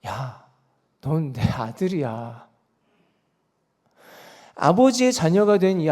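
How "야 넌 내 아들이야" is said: low, soft, slow fatherly reassurance; tender and unhurried, pitched down; smiling father. Retold or imitated. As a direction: lightly voice a dad's gentle answer with a smile. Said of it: "아빠가 웃으면서 말합니다".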